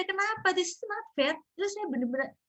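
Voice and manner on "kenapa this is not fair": replaying her frustrated questioning of God; retold angry complaint. Mother retelling her complaint to Allah, mock indignant. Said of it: "habis sholat marah".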